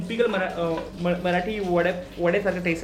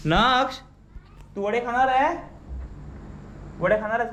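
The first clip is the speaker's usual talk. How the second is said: higher-pitched call, rising at the end; 5 semitones higher than usual. Real, not acted. Asking Naksh if he'll eat vada, calling out. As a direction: call over to someone with a question.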